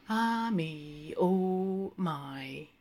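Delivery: breathy sighing aside; sighed aside. Acted. Lenehan sighing aside after being ignored. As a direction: sigh it out to nobody. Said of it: "He sighed aside".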